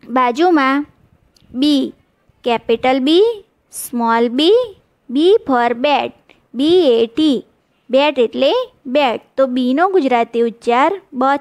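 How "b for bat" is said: put-on very slow, each word spelled out for kids; slow classroom model reading; slow demo reading. Shown as a demonstration. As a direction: read it slowly so children can copy. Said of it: "ઉચ્ચાર શીખીશું".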